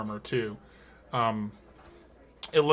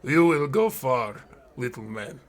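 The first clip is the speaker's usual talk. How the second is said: booming giant; 2 semitones higher, 6 dB louder than usual. Acted. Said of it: "He goes".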